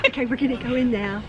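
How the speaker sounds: whispering. Real, not acted. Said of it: "Why are we whispering?".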